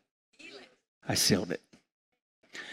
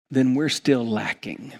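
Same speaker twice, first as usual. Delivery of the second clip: much softer and lower, with long pauses; solemn quiet; 3 semitones lower, 6 dB quieter than usual. Acted. Pastor gently warning those without a shepherd, quiet. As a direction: let it sink in, almost hushed.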